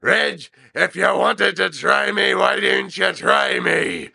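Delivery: high, loud, slow exasperated outburst; a fed-up old dad finally blowing up; irritated blurt. Retold or imitated. Stu snapping at the prank caller, high, loud and slow. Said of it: "blurts out and says".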